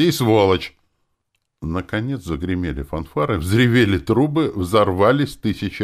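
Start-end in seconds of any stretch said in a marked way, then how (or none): 0.0-0.8 louder mock grumble; grumpy jab. A narrator's reading. Nastya adding an insult to the hero, grumpy and louder. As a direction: toss the insult in sulkily. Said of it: "сварливо проворчала Настя".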